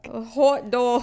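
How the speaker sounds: loud, hammed-up Boston accent; broad Boston vowels, played for laughs. Shown as a demonstration. Cohosts switch to a jokey Boston accent.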